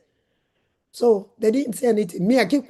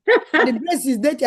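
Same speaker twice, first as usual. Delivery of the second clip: slow, louder mock of the nurse; mimicking a nurse; 6 semitones higher, 5 dB louder than usual. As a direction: draw it out like a disapproving nurse. Nurse voiced in story.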